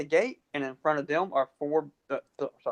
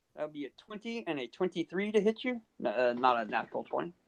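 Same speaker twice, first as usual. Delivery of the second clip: ordinary delivery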